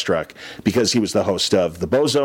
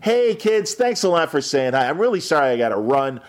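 friendly smile; 2 semitones higher than usual. Pretend. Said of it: "just smile".

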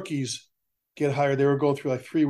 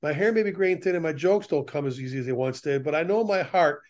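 measured, earnest reading of a poem; poem recitation. Acted. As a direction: firefighter reciting a memorial poem at a ceremony. Reads the retiree poem.

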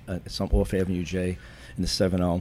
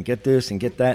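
mildly raised, urgent mock yell; a touch higher and more forceful; retold yelling; 4 semitones higher, 4 dB louder than usual. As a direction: imitate medics calling out orders, half-strength. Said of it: "they're yelling and they're screaming medical terms".

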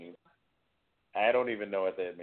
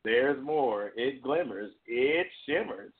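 infomercial; slower than usual. Retold or imitated. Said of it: "You sound like an infomercial".

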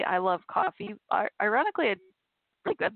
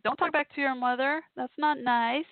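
scolding dog; 5 semitones higher than usual. Real, not acted.

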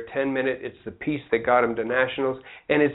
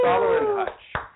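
slow, much higher announcer-style name call; announcer intro. Pretend.

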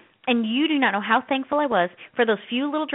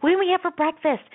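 higher, mock child question; kids' voices; 6 semitones higher than usual. Kids asking mom about breakfast, mock pleading. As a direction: lightly imitate a kid asking mom. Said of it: "the kids go".

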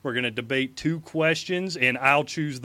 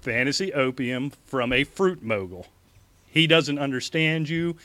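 campaign speech. Acted.

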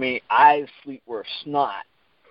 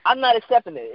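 mad refusal; 9 semitones higher than usual. Retold or imitated. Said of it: "mad, and she hung up".

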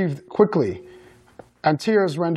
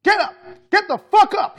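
high-pitched furious shout; screamed command; 3 dB louder than usual. A narrator's reading. Mother screaming at her fallen son, furious shout. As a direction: shout the order, harder the second time. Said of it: "she screamed".

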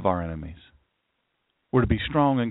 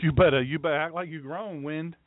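Sussex County scolding. Pretend. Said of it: "Say it down in Sussex County".

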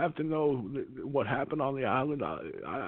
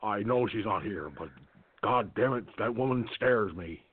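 Reagan impression; 6 semitones lower than usual. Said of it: "the greatest Reagan I've ever heard".

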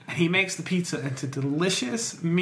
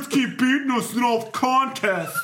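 frat bro; 6 semitones higher, 4 dB louder than usual. Acted. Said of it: "they're like".

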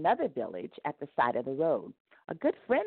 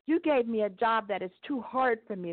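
sobbing; 6 semitones higher than usual. A narrator's reading. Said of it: "the man sobbed".

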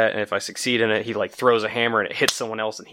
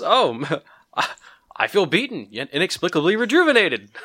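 dazed healed fighter; 6 semitones higher than usual. Pretend. Healed party member speaks.

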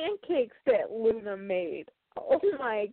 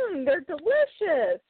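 polite fake praise; 5 semitones higher, slower than usual. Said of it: "a good sport at trying them".

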